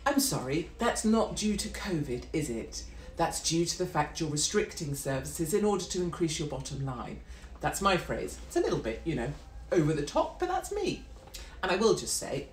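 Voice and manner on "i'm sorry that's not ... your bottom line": polite but pointed. Shown as a demonstration. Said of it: "feel free to politely say".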